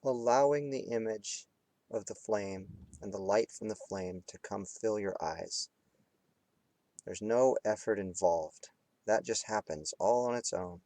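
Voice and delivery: unhurried meditation guide with long pauses; guided meditation. Real, not acted. Teacher guiding students between hard focus and relaxing, guided meditation. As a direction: lead them through it phrase by phrase, leaving space. Leads candle flame meditation.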